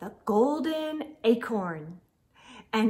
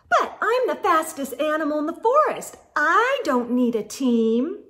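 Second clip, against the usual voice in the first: scoffing; 3 semitones higher, 3 dB louder than usual. Acted. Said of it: "Squirrel scoffed".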